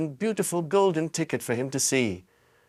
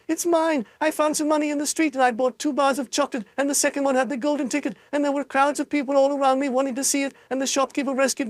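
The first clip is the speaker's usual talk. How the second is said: high, fast, tumbling excitement; excited child; 12 semitones higher, faster than usual. A narrator's reading. Charlie tells his mother everything, high and fast. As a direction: gush it all out at once.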